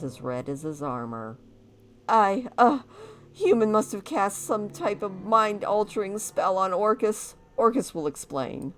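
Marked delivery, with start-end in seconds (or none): 2.1-8.7 hammy orc warrior voice. Acted. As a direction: boast like a proud orc. Voices Orcus telling his story.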